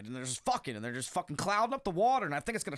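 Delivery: stoner scientist voice. Retold or imitated. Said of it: "These guys are just like".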